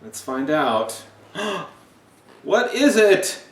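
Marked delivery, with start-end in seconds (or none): 1.3-3.4 high, loud, drawn-out asking; slow, loud storybook excitement; excited question. Acted. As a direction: ask it big, as a suspenseful reveal. Reading picture book with suspense.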